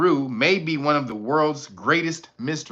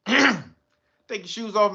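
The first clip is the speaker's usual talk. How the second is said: slow, drawn-out order; slow dojo instruction; slow command; 4 semitones higher, much slower than usual. Pretend. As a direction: stretch each word like a stern sensei.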